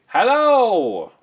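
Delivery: imitating Chilean kids' Asian-accented hello, high and loud. Chilean kids greeting an American, Asian-accented hello. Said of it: "Why they spoke with an Asian accent".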